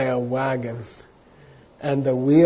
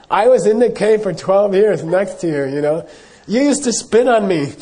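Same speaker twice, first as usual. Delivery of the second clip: retorting firmly; 4 semitones higher, 4 dB louder than usual. Retold or imitated. Teacher answers the angry hermit.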